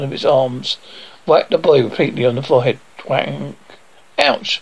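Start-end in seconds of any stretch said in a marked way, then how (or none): 4.2-4.6 high "ouch" at normal volume; acted yelp of pain. Boy whacked by his robot butler, high acted yelp.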